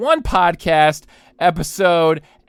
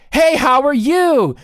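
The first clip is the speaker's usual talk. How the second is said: mock gushing; 5 semitones higher, 3 dB louder than usual. Reading gushing text aloud.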